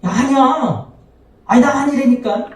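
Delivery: high, hurried mock panic; a hint of panicked Peter; flustered denial. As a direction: deny it in a fluster. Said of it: "당황해서".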